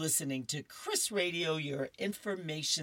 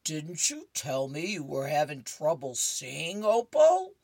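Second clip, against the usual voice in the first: Earl asking; 7 dB louder than usual. Acted. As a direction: end on a squeaky questioning Opal. Husband questions wife in comic.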